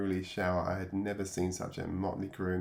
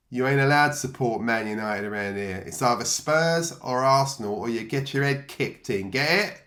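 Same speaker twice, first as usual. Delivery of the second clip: loud, higher menacing warning; bully's threat; 3 semitones higher, 9 dB louder than usual. Retold or imitated. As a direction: lean in and threaten him with a kicking. Menacing boy threatens newcomer.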